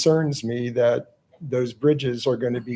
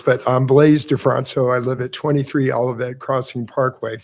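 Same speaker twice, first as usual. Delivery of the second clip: hoarse; 4 dB louder than usual. Real, not acted. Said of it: "excuse my voice, I have a little bit of hoarseness".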